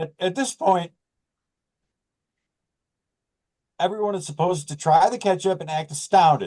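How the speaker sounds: holding back laughter while speaking. Describing a friend's staged ketchup tasting, holding back laughter. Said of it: "I'm trying not to laugh".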